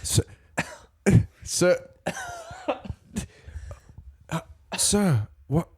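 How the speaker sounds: hammed-up interrogation, half laughing; mock worried friend. Rescued gladiator questioning his friend, high mock voice. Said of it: "I'm like".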